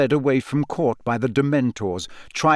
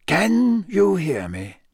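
slow, higher-pitched headmaster's voice; gentle questioning; 7 semitones higher, slower than usual. A narrator's reading. Headmaster kneeling before the dazed man, slow gentle question. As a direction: draw the question out carefully. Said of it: "Dumbledore asked quietly".

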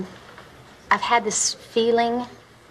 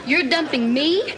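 indignant Southern drawl, pitched up; 4 semitones higher, slower than usual. Acted. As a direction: protest in a wounded Southern drawl. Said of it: "please don't say it like that".

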